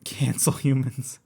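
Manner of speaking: whispered under the breath; whispering. Real, not acted. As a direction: whisper it to yourself, slowly. Muttering to self while gaming.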